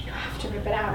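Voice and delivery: softly, pleading under breath; desperate whisper. Acted. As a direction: beg him in a whisper. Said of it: "I whisper desperately".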